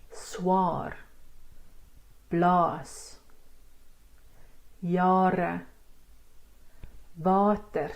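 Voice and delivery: "swaar", "blaas", "jare", "water" with a drawn-out "aah"; long A. Shown as a demonstration. Teacher modelling words one by one, long A in "swaar, blaas, jare, water". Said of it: "These are two long A's".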